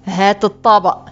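restrained irritated demand; exasperated. A narrator's reading. Seller asks the boy for his plate, mildly exasperated. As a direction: demand it with a touch of annoyance. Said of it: "فسألني بغيظ".

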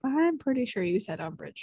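repete "I'm pretty sure you said Umbridge" baixinho, como uma gravação; quiet replay. Shown as a demonstration. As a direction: replay tape read softly and flatly. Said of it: "Roll that replay tape".

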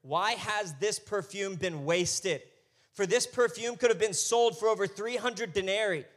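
a touch of indignation; indignant. Acted. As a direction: voice their indignant objection with drawn-out stress. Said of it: "indignantly remarking to one another".

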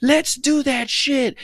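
very high, loud, drawn-out hype; hyped yeah. Retold or imitated. Retelling her own eager answer, high hyped squeal. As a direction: squeal it like a thrilled kid. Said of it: "I was like".

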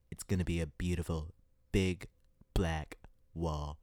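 hint of a Trump stump-speech promise; Donald Trump voice. Mocking politicians to her viewers with a mild Trump impression. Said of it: "I'm gonna do my Donald Trump voice".

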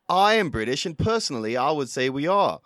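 attempted British accent slipping into Australian; failed British accent. Reading a question asker's words as a Brit, in a failing British accent. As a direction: try a British accent and lose it toward Australian. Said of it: "I think I've lost my British accent".

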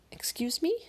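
high, confused whisper. Acted. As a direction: whisper it in puzzlement.

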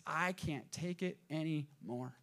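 slow, weary acted surrender; understated exhausted despair; end of rope. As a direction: say it drawn out, as if worn down. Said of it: "at the end of your rope".

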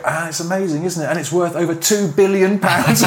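hammed-up wonder rising to a loud claim; mock amazement. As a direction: imitate a presenter escalating an absurd boast. Mimics presenter's escalating hype.

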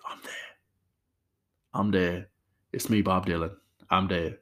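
horrible, half-hearted impression; a singer. Podcast host badly mimicking the singer from a movie, half-hearted impression. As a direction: lightly imitate a singer, badly. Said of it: "That's a horrible impression of a singer".

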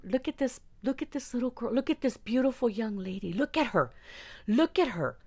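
imitated creepy praise; mock leering admirer. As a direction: mimic a man showing off a girl like a prize. Men parading her around.

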